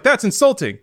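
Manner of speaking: high-pitched mock indignation; imitated offended retort. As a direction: snap back as the offended friend. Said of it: "yelled at me a little bit more".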